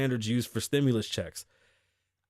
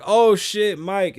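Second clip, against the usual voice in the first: higher and louder; mock excited fan; 7 semitones higher, 6 dB louder, much slower than usual. Fan spots Mike Tyson in the club, mock excited shout. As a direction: spot your idol and shout.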